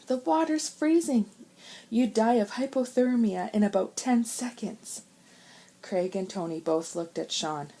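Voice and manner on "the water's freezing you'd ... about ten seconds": sharp. A narrator's reading. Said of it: "asked Sean sharply".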